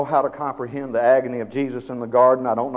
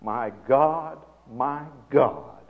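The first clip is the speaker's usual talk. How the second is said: imitated cry of agony; 3 semitones higher, 6 dB louder, much slower than usual. Preacher voices Jesus on the cross, drawn-out crying out. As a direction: draw out an anguished cry, building to the end. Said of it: "cried out".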